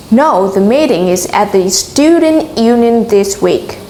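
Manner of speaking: Student Union stressed to correct the information; teacher's model sentence, Student Union made prominent. Shown as a demonstration. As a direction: put the emphasis on "Student Union". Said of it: "Chúng ta sẽ nhấn vào từ Student Union".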